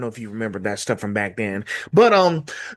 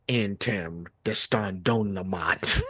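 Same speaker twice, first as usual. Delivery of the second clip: slow mock Russian gibberish in Batman's voice; slow put-on Russian; foreign language; 4 semitones lower, 5 dB quieter, slower than usual. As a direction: growl out fake Russian slowly. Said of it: "speaking a different language".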